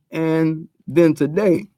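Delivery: talking through a burp; words pushed out around a burp. Real, not acted. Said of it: "excuse me, I'm burping the shit".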